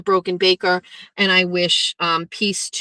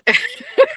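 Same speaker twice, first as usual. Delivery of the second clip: a sudden squealing laugh, much higher; high burst of laughter. Real, not acted. Streamer laughing at the screenshotted questions, squealing laugh. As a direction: let a shrieking laugh burst out.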